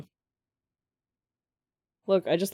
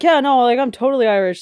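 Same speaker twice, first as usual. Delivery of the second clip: mocking American; 6 semitones higher, 8 dB louder than usual. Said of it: "it's like".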